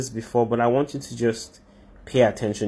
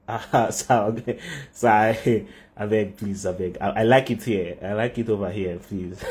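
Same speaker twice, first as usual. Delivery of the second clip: low, soft, sheepish mumble of excuses; meek begging off; 6 semitones lower, 3 dB quieter than usual. Acted. Michael begs God not to send him, meek pleading. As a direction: shrink back and plead quietly to stay.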